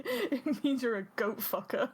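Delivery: giggling as she delivers the punchline; a laughing mock translation; laughing through a mock answer. To her friend, laughing while voicing the translator.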